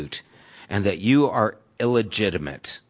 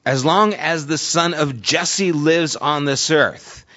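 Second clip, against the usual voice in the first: Saul's anger; 5 semitones higher than usual. Retold or imitated. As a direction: let Saul's threat build slowly. Saul's angry speech retold.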